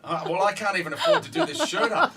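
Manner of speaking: chuckling through the words; laughing. Real, not acted. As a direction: laugh while saying it. Joking about his tight shirt.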